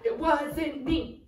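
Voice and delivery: slow, stretched "it wasn't me"; drawn-out denial. Pretend. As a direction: drag out each word of "it wasn't me". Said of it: "and you're gonna go".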